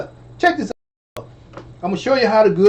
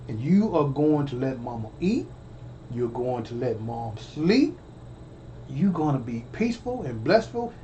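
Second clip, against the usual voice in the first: put-on tender to unborn baby; 4 semitones lower than usual. Talking to baby in womb.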